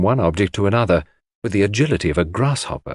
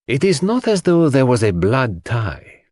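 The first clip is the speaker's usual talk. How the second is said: put-on higher, accented detective voice, emphatic; Poirot, grave; 5 semitones higher than usual. A narrator's reading. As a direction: instruct a friend gravely, leaning on key words.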